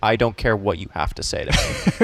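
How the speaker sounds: quick, mock brush-off; dismissive. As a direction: imitate a dismissive Boston fan. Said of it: "they're so dismissive".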